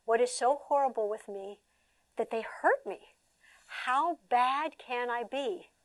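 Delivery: soft, slow lament; abused child wondering what's wrong with him; sad child. Retold or imitated. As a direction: ask it like a hurt kid. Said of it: "the abused kid says".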